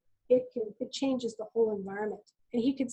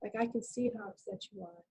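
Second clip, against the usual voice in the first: gentle invitation. Retold or imitated. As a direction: invite him to talk kindly. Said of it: "I said it, you know, like that".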